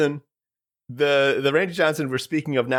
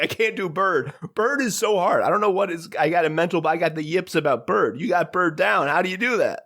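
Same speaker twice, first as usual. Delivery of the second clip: higher-pitched envious whine; lightly voiced frustrated shapeshifter; character voice; 5 semitones higher than usual. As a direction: pitch it up like a flustered kid. Protean unit confessing in character.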